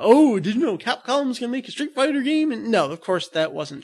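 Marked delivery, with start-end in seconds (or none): 0.0-2.5 rumour-monger. Retold or imitated. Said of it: "there are the rumors about".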